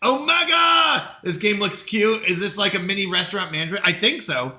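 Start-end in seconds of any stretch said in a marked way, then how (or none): 0.0-1.2 high, loud and slow gloating; boastful. Real, not acted. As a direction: gloat about the easy win. Boasting over easy mode.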